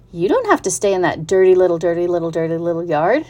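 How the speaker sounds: quick chattering goose; fast-talking goose, repeating herself. Acted. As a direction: rattle it off like a fussy goose. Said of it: "who talked rather fast".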